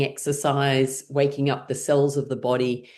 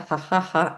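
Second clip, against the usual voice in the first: even, spoken-out ha-has; deliberate exercise laugh at talking pitch; laughing sounds; 2 semitones higher than usual. Shown as a demonstration. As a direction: chant fake laughter in time with tapping. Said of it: "as you're making laughing sounds".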